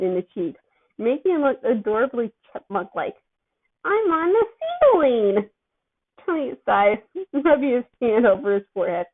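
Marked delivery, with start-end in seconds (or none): 3.8-5.5 giddy excitement. A narrator's reading. Drugged teen thrilled on ceiling.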